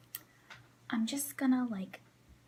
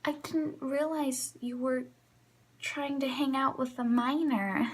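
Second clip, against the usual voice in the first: pointed sarcastic callout; 4 semitones higher than usual. Retold or imitated. Calling out creepy customer.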